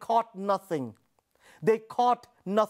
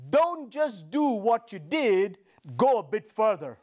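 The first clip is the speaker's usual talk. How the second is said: Jesus speaking; 3 semitones lower than usual. Acted. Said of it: "He says".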